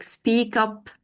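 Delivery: "speak up" run together as spea-kup; linked words. Shown as a demonstration. Trainer gives an example of connected speech, "speak up" linked. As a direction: slowly link the k of "speak" into "up". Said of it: "connect speech feature like linking".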